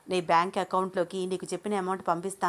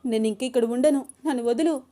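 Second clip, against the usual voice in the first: high, loud shouting; woman yelling at the man who hit her; furious struggling; 7 semitones higher, 5 dB louder than usual. Acted. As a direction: wrestle free while yelling at him. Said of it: "అని గింజుకుంటోంది అను".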